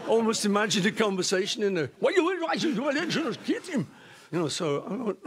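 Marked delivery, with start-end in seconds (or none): 2.0-3.9 imagined angry mugger. Retold or imitated. Mugger in the car wanting to hit the singer, hammed-up. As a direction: play the baffled mugger muttering revenge.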